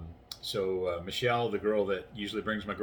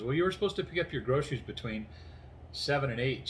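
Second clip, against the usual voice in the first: a hint of a higher, meek caller; 4 semitones higher than usual. Store clerk reminding a late customer, lightly imitated meek voice. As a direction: lightly mimic a timid reminder. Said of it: "this little meek voice in there".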